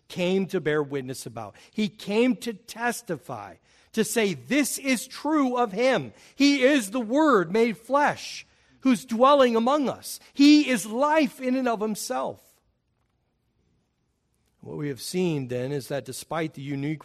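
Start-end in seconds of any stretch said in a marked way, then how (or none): 4.3-12.4 raised, slowed proclaiming voice; John's testimony. Retold or imitated. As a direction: proclaim it like the Baptist.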